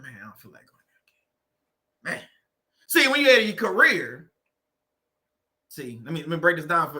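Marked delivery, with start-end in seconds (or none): 0.0-2.3 low, very soft groan of dread; half-asleep reluctant mumble; dreading work. Retold or imitated. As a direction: drag it out like you can't face the day. Groggy worker dreading the alarm.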